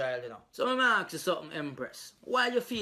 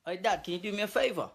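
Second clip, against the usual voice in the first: put-on British accent; 4 semitones higher than usual. Skit's English-style version of request.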